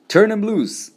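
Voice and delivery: high, loud jovial call; hearty, amused. A narrator's reading. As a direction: call it out in big good humour, without laughing. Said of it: "said with a big laugh".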